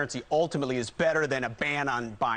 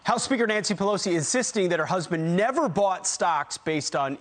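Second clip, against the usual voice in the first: punchy anchor lead-in; news read. Real, not acted. Anchor introducing a story on Pelosi's stock denial, news read.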